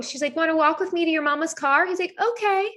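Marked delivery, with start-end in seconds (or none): 0.4-1.9 teacher coaxing. Retold or imitated. Voices teacher coaxing child. 2.2-2.7 put-on high little-kid okay; agreeable child. Voices son agreeing.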